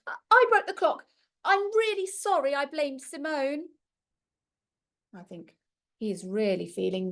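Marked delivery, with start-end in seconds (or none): 0.1-3.7 put-on high, fast, stumbling boy's voice; words tripping over themselves. Finn confessing to Grandma in a fast, stumbling rush. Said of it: "the words tripping over themselves".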